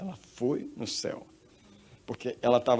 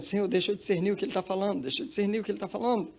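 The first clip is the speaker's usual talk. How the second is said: high, hurried acted plea; pleading request; 9 semitones higher, faster than usual. Woman asking the Lord to let her understand, high rushed pleading. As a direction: ask urgently, fast and pitched up. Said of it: "E ela perguntando".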